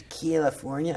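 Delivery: "California" mimicked as kee-al-ifornia, rising into a question; "California" in a mock Californian accent. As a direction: tease the y-glide after the C of "California". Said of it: "My friends started going".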